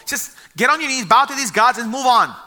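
pressing them to give in and bow; pushy king. Retold or imitated. King pressing the three men to bow, insistent.

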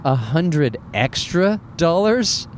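slow, drawn-out disbelieving repeat; slow disbelief. Retold or imitated. Comic retelling to the audience, slow stunned disbelief. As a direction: stretch it out like you can't believe the price. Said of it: "I'm like".

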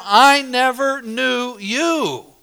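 a lightly voiced Jesus, slow and grave; Jesus' solemn verdict. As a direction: let each word fall like a judgment. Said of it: "he will profess to them".

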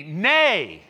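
loud, drawn-out Nay for them to echo; call-and-response. Shown as a demonstration. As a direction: lead the congregation. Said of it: "Say this with me".

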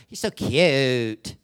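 put-on slow, dragged-out valley girl drawl; mock valley girl drawl; fake California accent. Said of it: "nasally talking, dragging out".

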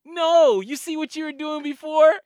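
a hint of a stern cop; lightly voiced cop. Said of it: "He goes".

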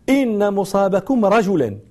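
slow, رجلا ending in a clear -an; accusative as taught. Retold or imitated. Singing girl defending her teacher's version, رجلا ending in -an. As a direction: insist on "rajulan" for رجلا. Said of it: "أنا لا أقول إلا كما لقنني شيخي".

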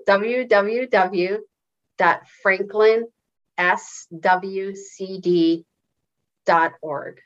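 slow, spaced-out web address. Shown as a demonstration. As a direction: spell it out slowly, pausing between parts. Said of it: "Say that again slower".

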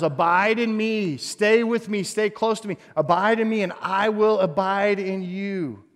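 tender Jesus voice. Acted. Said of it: "is telling the disciples".

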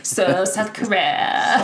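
slow mock Valley Girl; Valley Girl imitation. Shown as a demonstration. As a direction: stretch it out slowly like a Valley Girl. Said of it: "You sounded like a Valley Girl".

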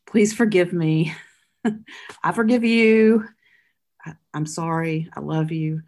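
earnest, hopeful words of reconciliation; warm sincere. Shown as a demonstration. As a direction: offer it with a smile in the voice. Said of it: "we're able to say".

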